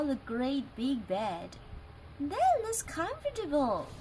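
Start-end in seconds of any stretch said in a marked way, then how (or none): 2.2-3.9 put-on lightly high little girl voice; a mild delighted little girl; Goldilocks cries out. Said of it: "she cried".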